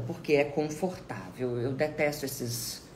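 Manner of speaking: ordinary talk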